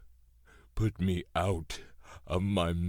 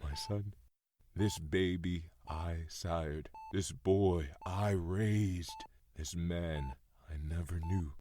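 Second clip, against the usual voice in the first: soft grieving farewell; 4 dB quieter than usual. Acted. Farewell prayer over his son.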